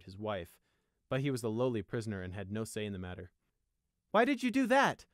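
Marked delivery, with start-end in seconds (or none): 4.1-5.1 high, loud angry demand; indignant raised-voice question. A narrator's reading. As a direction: confront him hotly. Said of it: "asked Prey angrily".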